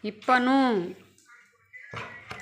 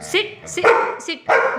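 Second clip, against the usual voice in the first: firm, raised command to sit; sharp command; 5 semitones higher, much slower than usual. Real, not acted. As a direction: bark the order at the pet.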